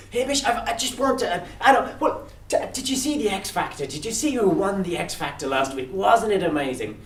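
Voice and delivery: can't get a word in; flustered chatter. Acted. Death failing to interrupt Hamish, flustered and high.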